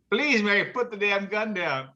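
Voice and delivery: high pleading, laughing through; husband begging, high with a laugh. Retold or imitated. Dying husband begging wife, high, laughing.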